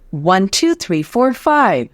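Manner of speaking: counting on one breath. Shown as a demonstration. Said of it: "I'm gonna count to five".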